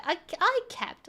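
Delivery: ordinary delivery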